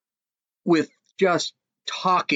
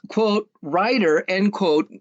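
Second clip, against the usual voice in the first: sarcastic air quotes; 3 semitones higher, slower than usual. Real, not acted. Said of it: "I give her quotes".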